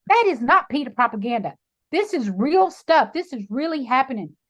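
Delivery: emphatic acted retort; insistent retort. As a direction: push back hard, stressing the words. Acted retort to husband's dismissal.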